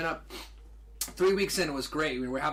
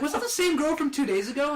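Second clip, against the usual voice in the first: retold angry question; 10 semitones higher, 4 dB louder than usual. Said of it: "I was pissed".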